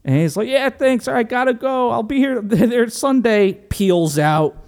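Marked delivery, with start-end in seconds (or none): 0.5-3.5 high, hurried Italian-American Rocky; Rocky thanking the priest before peeling out, mock Italian; mock Italian accent. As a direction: rush off in cartoon Italian-American. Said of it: "my Italian".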